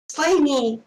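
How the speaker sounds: high, loud outburst; exclaimed in character. Acted. Doc looks at a disguised friend, loud exclamation. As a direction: burst out with it suddenly. Doc's acted exclamation, confused.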